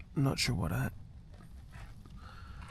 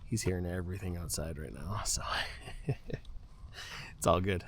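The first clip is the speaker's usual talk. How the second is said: hushed late-night whisper; 6 semitones lower, 9 dB quieter than usual. Real, not acted. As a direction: whisper it so nobody wakes. Night in tent, dog listening.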